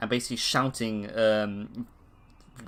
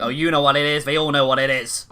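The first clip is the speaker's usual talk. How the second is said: loud, accusing certainty; paranoid insistence; 7 dB louder, faster than usual. Acted. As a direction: push it at them, fearful and sure. Paranoid NPC insists loudly.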